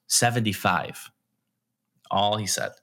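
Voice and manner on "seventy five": slow, flat "Seventy-five." as a plain statement; flat blunt answer. Retold or imitated. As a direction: say "Seventy-five." slowly with a falling end, matter-of-fact. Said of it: "he just looks back at me and goes".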